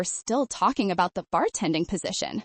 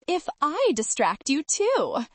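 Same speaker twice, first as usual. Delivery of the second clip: innocently naughty; 5 semitones higher, slower than usual. Acted. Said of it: "in my best innocently naughty voice".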